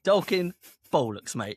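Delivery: put-on Cockney accent. Co-host echoing the podcast title, mock Cockney accent. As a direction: throw it out in Cockney. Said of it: "say it in a Cockney accent".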